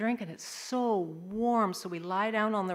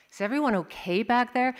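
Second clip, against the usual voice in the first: raised, louder concerned question; calling back; 2 semitones higher, 4 dB louder, faster than usual. Acted. Mom to kids in the back after crash, calling out. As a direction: project it toward the back seat.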